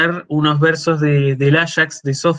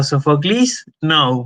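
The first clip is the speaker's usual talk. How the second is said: imitated Greek guard's "Sofoclis", English "no"; mixed Greek-English; slower than usual. Theater guard stopping the reciter, imitated Greek-English mix. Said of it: "me mezcló el griego con el inglés".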